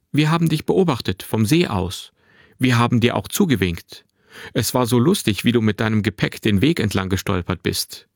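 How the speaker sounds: lightly voiced boy, cheerfully chatty; a hint of a lively twelve-year-old; lively young boy. Narrator voices the boy Finn.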